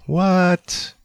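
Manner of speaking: high-pitched incredulous cry; startled, high exclamation; shocked disbelief. Real, not acted. Reacting to a surprising claim.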